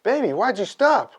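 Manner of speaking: high put-on female voice; voicing the girlfriend. Girlfriend asking him why, high mock-female voice. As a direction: pitch it up as a puzzled lover. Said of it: "she goes".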